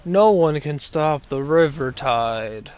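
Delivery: slow, flat, bored voice acting; bored monotone impression. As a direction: deliver it like an uninterested voice actor. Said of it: "my impression and hers".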